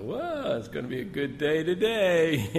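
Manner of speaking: mock cheerful. Amused thought seeing fires.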